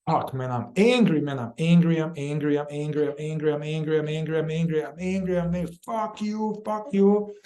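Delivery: angry, building up. Shown as a demonstration. Facilitator showing how the inner work builds up, rapid angry chant. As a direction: let demonstrated anger build through quick repetitions. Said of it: "it's gonna build up more".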